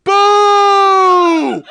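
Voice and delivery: long, high, loud boo. Retold or imitated. Guy behind boos the white guy, booing. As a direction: let rip one sustained heckler's boo. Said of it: "Just boos the white guy".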